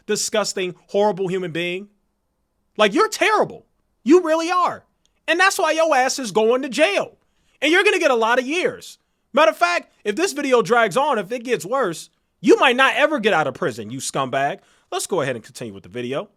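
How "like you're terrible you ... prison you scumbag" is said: high, loud angry rant; furious shout. Real, not acted. Ranting at the crypto promoter, loud and furious. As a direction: tear into him at full volume.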